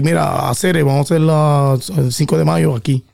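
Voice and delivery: rapid Dominican Spanish; quick Dominican accent. Shown as a demonstration. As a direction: fire it off like a Dominican. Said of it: "if you were Dominican".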